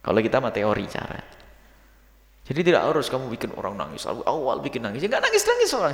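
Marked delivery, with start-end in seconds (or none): 5.0-5.9 mock weepy preacher. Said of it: "gayanya kayak orang nangis".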